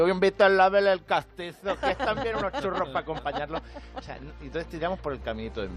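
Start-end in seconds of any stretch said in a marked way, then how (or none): 0.0-3.6 louder, higher, laughing taunt; mock castizo taunt. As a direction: tease like a Madrid local. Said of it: "van a decir".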